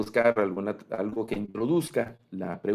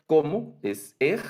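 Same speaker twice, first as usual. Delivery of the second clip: exclaiming; 7 semitones higher, 5 dB louder, slower than usual. Shown as a demonstration. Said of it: "tono de admiración".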